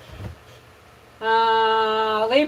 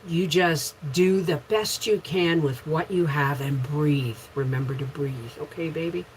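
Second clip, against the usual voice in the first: tender reassurance; 4 semitones lower, 4 dB quieter than usual. Real, not acted. Comforting viewer facing radiation.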